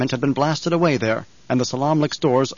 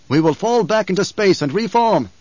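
commanding emperor; 6 semitones higher, 4 dB louder than usual. A narrator's reading. Emperor orders retreat.

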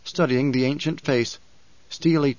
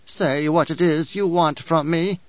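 muttered; 4 semitones higher than usual. Acted. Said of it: "she muttered".

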